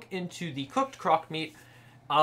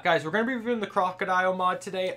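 put-on slipping Australian accent; 2 semitones higher, faster than usual. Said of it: "I already said it with an accent again".

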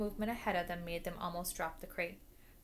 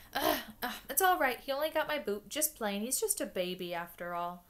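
Hagrid shrugging off a bite; 3 semitones higher, 5 dB louder than usual. Acted. Hagrid bitten, brushing it off.

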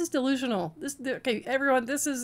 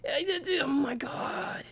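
slow whispered oh my God; whispered disbelief; stunned whisper; 6 dB quieter, slower than usual. Real, not acted. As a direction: breathe it out, lost for words. Stunned reaction to clip.

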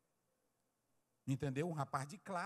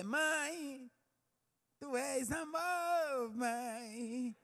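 high, drawn-out hammed-up affection; mock gushing; 9 semitones higher, much slower than usual. Preacher mocks Mother's Day child, exaggerated sweet-talk. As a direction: imitate a once-a-year child fawning over mother.

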